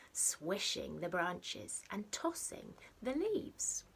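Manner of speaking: lively storybook read-aloud with a hushed edge; reading to children. A narrator's reading. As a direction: read it like a bedtime picture book, playful and rhythmic. Reads picture book to children.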